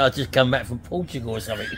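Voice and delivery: retold reply cracking up with laughter; words squeezed out between laughs; laughing through quote. Laughing while retelling her own reply to the shopkeeper. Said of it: "I said".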